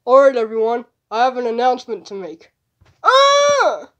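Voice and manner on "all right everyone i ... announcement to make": loud announcement. Acted.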